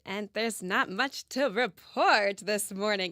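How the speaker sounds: slow, drawn-out vintage announcer read; like a 1940s radio announcer. Real, not acted. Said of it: "You almost slid into that old-timey radio voice there at the beginning".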